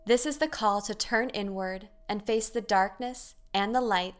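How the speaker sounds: measured, lilting inspirational intro read; scripted podcast intro. Acted. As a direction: invite listeners in with short, separate phrases.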